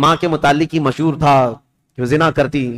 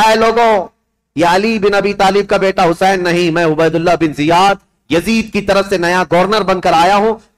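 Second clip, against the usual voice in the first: harsh governor proclamation; 3 semitones higher than usual. Acted. Governor's harsh speech from the roof.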